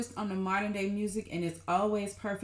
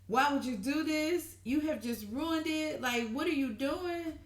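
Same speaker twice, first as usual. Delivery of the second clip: raised, heated scolding of the man; upset scolding; 6 semitones higher than usual. Retold or imitated. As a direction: hit him with her frustration, voice up. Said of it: "She is upset".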